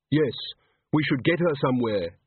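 crisp, exact diction; controlled, clipped delivery; clipped and precise. Acted. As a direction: say it precisely, each word trimmed. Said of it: "His voice was clipped and precise".

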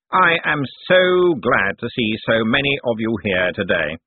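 slow, drawn-out speech of welcome; public address. A narrator's reading. Cosmo welcomes his relatives, slow public address. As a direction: welcome the gathering slowly and formally.

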